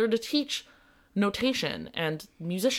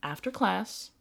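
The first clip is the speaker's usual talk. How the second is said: reassuring. Retold or imitated. Teacher reassuring a nervous student.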